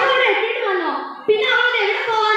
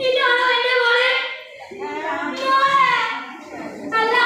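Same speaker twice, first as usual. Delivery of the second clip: anguished cry; 3 semitones higher than usual. Acted. Mother sees daughter's body.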